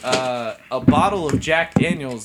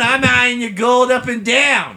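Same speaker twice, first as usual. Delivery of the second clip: leering prospector; 4 semitones higher, 4 dB louder than usual. Pretend. Prospector role voice.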